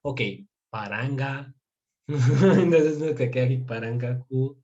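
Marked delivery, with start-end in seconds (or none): 0.7-1.5 first chunk of paranga on its own; piece by piece. Shown as a demonstration. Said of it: "se la graba por pedazos". 3.6-4.6 piece by piece. Shown as a demonstration. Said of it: "se la graba por pedazos".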